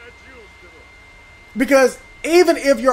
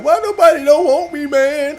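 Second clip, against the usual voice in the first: higher, plaintive mimic of a sad man; mimicking whiny plea; 6 semitones higher, 3 dB louder than usual. Gamer mimicking a sad online figure, higher pleading imitation. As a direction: echo his pitiful plea, a little higher. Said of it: "I'm mimicking the way he was talking".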